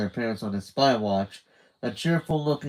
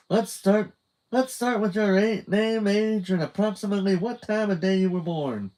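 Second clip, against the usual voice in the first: much higher, sing-song North Dakota surveyor; chirpy North Dakota accent; 10 semitones higher than usual. A narrator's reading. Candy starting her survey in North Dakota accent. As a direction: read the survey in a chirpy twang.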